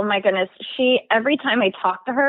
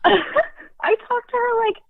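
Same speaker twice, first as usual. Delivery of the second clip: laughing; 13 semitones higher, much slower than usual. Real, not acted. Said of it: "laughs while answering about boss".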